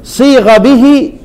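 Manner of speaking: slow melodic recitation; recited quote. Shown as a demonstration. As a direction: chant it slowly. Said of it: "ما عدا عن". (إنشاد بطيء)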